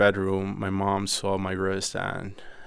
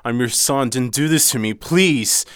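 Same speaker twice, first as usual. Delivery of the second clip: pleading; 3 semitones higher, 4 dB louder, slower than usual. Retold or imitated. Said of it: "And I told my mom".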